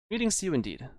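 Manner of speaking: high, lightly voiced elf woman; a proud elf sorceress, impatient. Voices Fenestra.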